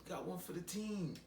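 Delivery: mock sports-team demon cheer. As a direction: celebrate the point like a teammate. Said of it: "How they say it?".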